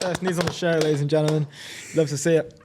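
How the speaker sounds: playful show-host announcement; announcer voice. Pretend. Mock-announcing the first sneeze.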